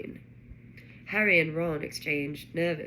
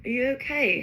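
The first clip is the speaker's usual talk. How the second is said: high, louder anxious question; urgent; 6 semitones higher, 5 dB louder than usual. A narrator's reading. Harry checks on Ron after the crash, urgent. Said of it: "Harry said urgently".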